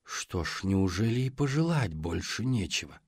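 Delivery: breathy, soft monster voice; gurgling monster whisper. Acted. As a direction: whisper it like a lurking sea hag. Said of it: "пробулькал голос".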